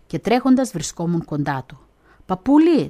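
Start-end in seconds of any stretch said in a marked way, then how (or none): 2.3-2.9 pleading call. Retold or imitated. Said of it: "τον παρακαλούσα".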